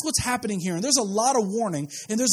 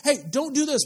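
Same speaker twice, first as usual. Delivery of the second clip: higher, raised call of warning; firm father's warning; 7 semitones higher, 3 dB louder than usual. Retold or imitated. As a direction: snap a child back from danger. Father figure warning his child.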